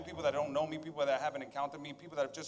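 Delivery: soft, close preaching; intimate hush. Real, not acted. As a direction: lean in and talk softly.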